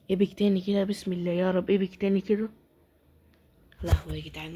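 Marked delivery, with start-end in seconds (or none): 0.1-2.5 louder, pleading chant for another epic; will the pack to give an epic, loud; loud eager prayer. Real, not acted. Gamer praying to the pack opening, loud pleading.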